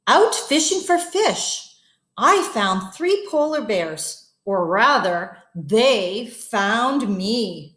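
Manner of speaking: put-on slow, lively read-aloud for kids; story narration. A narrator's reading. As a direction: tell it like a bedtime story. Reads story to children.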